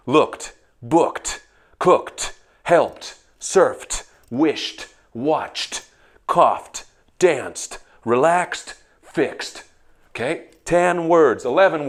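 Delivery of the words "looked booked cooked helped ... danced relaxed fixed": each past form ending in a crisp T; ed as T sound. Shown as a demonstration. Teacher drilling students on T endings. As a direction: clip the ending to a sharp T. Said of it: "Sound off".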